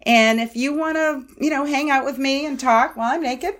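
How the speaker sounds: sweetly teasing, laughing as it climbs; sugary sweet tone. Shown as a demonstration. Parent daring kid to stay, laughing sugary tease. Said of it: "in this tone of voice".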